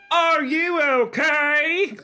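put-on high, slow squeaky girl voice; hammed-up high girl voice; worried girl. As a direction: squeak it out like a scared kid. Reading Lindy's worried line.

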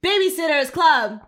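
gruff phone answer. A narrator's reading. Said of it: "I said gruffly".

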